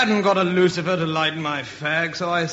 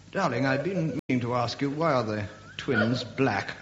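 quiet; 3 semitones lower, 6 dB quieter than usual. Acted. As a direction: ask it quietly. Soft pointed question.

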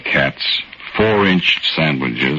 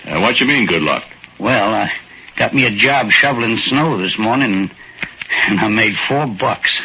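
put-on a shy old-timer, grateful and unsure; timid little old man; 7 semitones higher than usual. Little old man thanking John Smith for the luck, timid and higher.

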